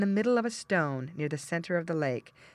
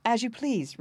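lightly pitched-up, unbothered reply; coolly; 7 semitones higher than usual. A narrator's reading. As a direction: brush off the king's anger. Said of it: "returned the prince coolly".

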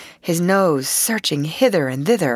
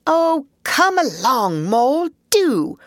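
a higher, slower, easygoing Rat voice; cheerful Rat; 7 semitones higher, 4 dB louder than usual. Acted. Rat answering Mole over his shoulder, cheerful and unbothered. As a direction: breezily brush him off. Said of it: "replied the rat cheerfully".

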